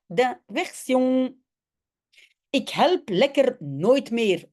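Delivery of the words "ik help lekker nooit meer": mild sulky shout. Acted. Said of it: "roept hij".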